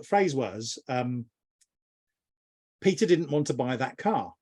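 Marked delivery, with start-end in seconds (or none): 2.8-4.3 Peter stressed first, falling. Shown as a demonstration. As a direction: lean on Peter. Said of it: "as you change the emphasis on the word".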